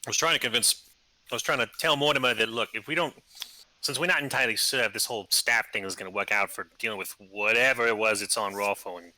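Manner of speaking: talking while crunching chips; words around a mouthful of chips. Real, not acted. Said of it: "Sorry, I'm crunching".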